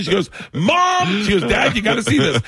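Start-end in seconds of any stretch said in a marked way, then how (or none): 0.5-1.2 very high mock squeal; retold hysterical, high-pitched cry; imitated crying-laughing. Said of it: "Georgia's crying, laughing". 1.5-2.4 high, laughing call; retold hysterics in a raised pitch; imitated crying-laughing. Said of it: "Georgia's crying, laughing".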